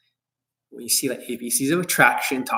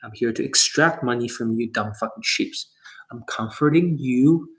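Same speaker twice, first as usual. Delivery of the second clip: mock sleazy coach; 4 semitones lower than usual. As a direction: lay on fake comfort with a sneer underneath. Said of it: "It means".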